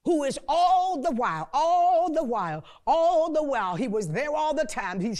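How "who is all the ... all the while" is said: louder with each all the while; building preacher shout. Real, not acted. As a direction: hammer the phrase higher. Preaching at full force.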